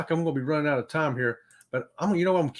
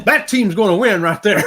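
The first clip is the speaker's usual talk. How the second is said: louder, punchy declaration; excited shout; 4 semitones higher, 7 dB louder than usual. Retold or imitated. Reacting to the Tampa coach's answer, excited shout. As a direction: call it like a fan sure of the win. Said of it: "I was like".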